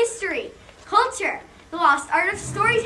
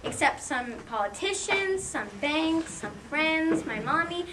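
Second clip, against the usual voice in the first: softer, slow reluctant admission; sheepish aside; 6 dB quieter, slower than usual. Acted. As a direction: mumble the list as if ashamed. Sheepish aside admitting help.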